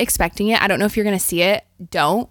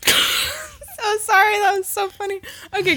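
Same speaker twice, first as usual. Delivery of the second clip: laughing; 10 semitones higher, 4 dB quieter than usual. Real, not acted. Laughing after the teasing.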